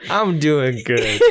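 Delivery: slow, drawn-out vampire reply; little vampire voice. Acted. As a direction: stretch it out like a spooky vampire. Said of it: "this is a little vampire voice".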